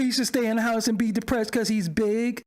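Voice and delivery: lightly whiny imitation of a commenter; mock someone with no bass in their voice; wimpy mocking voice. Host mimics a commenter defending the big man, wimpy mocking voice. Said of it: "like a bitch ass voice".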